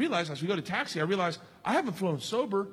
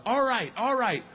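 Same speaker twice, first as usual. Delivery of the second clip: lightly imitated host hyping the audience; mock stage announcement to the room; addressing a crowd; 2 semitones higher, slower than usual. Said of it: "says to the crowd".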